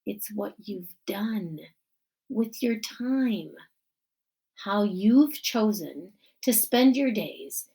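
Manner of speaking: lightly voiced principal at a podium; principal giving speech. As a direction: address the crowd as the principal.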